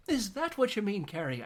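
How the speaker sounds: high-pitched taunting mock question; mocking teacher. Teacher turns on Carrie, mock sarcastic voice. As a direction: imitate the teacher's lilting put-down. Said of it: "he's not Irish or Scottish".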